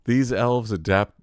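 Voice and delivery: laughing through the words; giggling while reading. Real, not acted. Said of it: "the reason why I started laughing".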